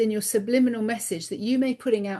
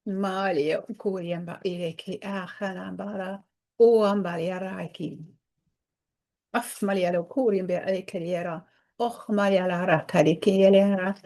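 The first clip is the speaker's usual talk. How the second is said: channeled language; 2 semitones lower than usual. Real, not acted. Channeling her guide to viewers, a murmured incantation. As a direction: let the sounds come as if channeled.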